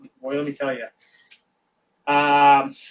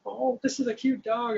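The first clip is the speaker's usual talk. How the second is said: wife cooing; 8 semitones higher, 4 dB quieter than usual. Retold or imitated. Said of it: "and she's".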